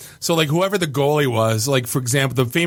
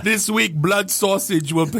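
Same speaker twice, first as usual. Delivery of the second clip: slow, higher mock Romanian announcer; Romanian accent; 5 semitones higher, slower than usual. Romanian guy runs down the bands on the hotline, mock Romanian accent. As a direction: imitate a Romanian reading out the band list. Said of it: "he's, like, a Romanian guy".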